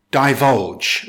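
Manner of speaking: "divulge" as die-VULGE, second syllable stressed; careful teacher's model of "divulge", die-VULGE. Shown as a demonstration. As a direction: lean on the end of "divulge". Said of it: "with stress on the second".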